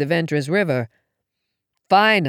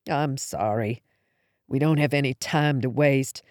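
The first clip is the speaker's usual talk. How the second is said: mumbled softly, head down; 5 semitones lower, 6 dB quieter than usual. A narrator's reading. Darcy apologises to mother with head on knees, mumbled softly. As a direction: say it low into your knees. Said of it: "I mumbled".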